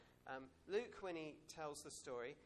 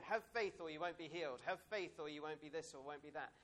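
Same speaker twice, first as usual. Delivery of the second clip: mock preacher; 7 dB louder than usual. Mocking preachy demand for faith.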